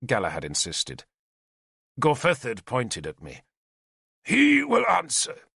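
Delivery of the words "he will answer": slow, high shouted order; commanding shout. A narrator's reading. King demanding the spy answer, shouted. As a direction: cut him off with a command.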